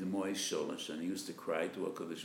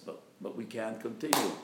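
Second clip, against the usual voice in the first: desperate plea. Acted. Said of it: "he screams and cries out of desperation".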